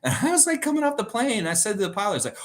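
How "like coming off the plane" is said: usual speaking voice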